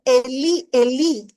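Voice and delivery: loud anguished cry, the last words dragged slowly. Acted. Preacher voices Jesus on the cross, crying out loud. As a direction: call it out like a dying man's plea. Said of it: "Jesús clamó en fuerte voz".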